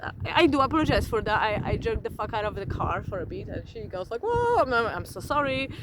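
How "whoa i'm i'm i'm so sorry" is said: startled. Retold or imitated. Retelling the jerky first-gear start, startled. Retold reaction to car jerking.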